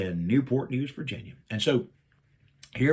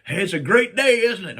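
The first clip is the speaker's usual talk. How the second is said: cheery wife; 8 semitones higher, 7 dB louder than usual. Retold or imitated. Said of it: "she's just like".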